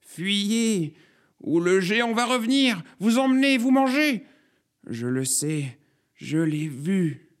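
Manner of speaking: high wailing alarm, easing at the end; old prophetess crying doom; frantic warning. A narrator's reading. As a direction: build to a very high cry, then drop to a grave claim. Old courgette warns of the giant.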